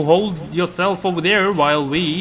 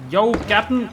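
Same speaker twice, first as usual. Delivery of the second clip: high, carrying call; 8 semitones higher than usual. Real, not acted. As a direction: call out to someone far off. Calling out to the captain.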